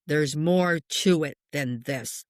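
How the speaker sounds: slow, measured retold spirit voice; deep voice. Medium quoting a man in spirit, lightly deep voice. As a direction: imitate a deep voice, drawn out. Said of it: "with this deep voice".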